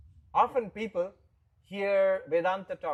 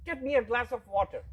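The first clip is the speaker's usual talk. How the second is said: a higher, commanding order; swami's command; 6 semitones higher than usual. Retold or imitated. Swami ordering novices, lightly raised voice. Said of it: "he would say".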